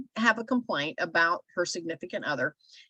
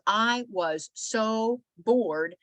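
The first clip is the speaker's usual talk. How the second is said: slow bored drawl; 3 semitones higher, much slower than usual. Retold or imitated. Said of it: "She goes".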